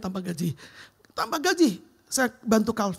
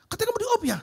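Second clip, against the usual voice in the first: angry boss; 14 semitones higher, much faster than usual. Retold or imitated. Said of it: "Marah dia".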